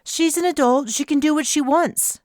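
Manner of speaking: high, sharp hiss of a reply; hissing alien retort. Acted. Kraken hitting back at the captain, hissed high. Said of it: "Kraken hissed back".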